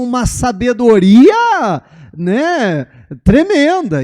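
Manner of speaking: high, loud excited mother voice; mãe empolgada. Retold or imitated. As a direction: build up her hopes, voice soaring. Mãe na expectativa, animada. (mãe empolgada, voz alta e aguda)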